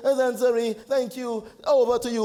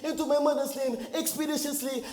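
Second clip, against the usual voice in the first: badly faked French accent; halting mock-French with hesitant "uh"s; put-on French accent. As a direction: defend yourself in a phoney French accent. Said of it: "this is the accent".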